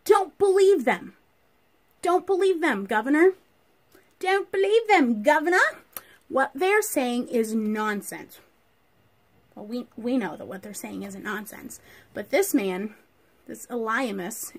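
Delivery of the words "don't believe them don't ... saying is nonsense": a higher, louder scheming magician pleading with the governor; sneering sorcerer. Acted. Sorcerer Elymas urging the governor not to believe. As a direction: hiss it like a sly false prophet. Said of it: "he interrupts and he says".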